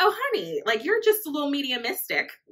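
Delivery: put-on breezy, sing-song, offhand, nonchalant blasé tone. Retelling what she said about seeing things: imitating someone nonchalant and blasé. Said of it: "so nonchalant and blasé".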